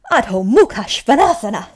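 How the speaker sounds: "Adho Mukha Svanasana" in one connected run, loud; all together. Shown as a demonstration.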